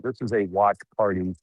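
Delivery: "party" hit a little harder at the end; stress on party. Real, not acted. Reporter at the watch party, stress on "party". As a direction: lean on "party" to show the fun. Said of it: "emphasis on the word party".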